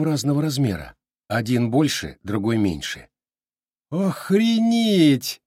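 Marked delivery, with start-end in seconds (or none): 3.9-5.4 drawn-out, high, amazed delight; overjoyed drawn-out cry; delighted exclamation. A narrator's reading. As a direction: savor the wow slowly. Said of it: "обрадовался Дима".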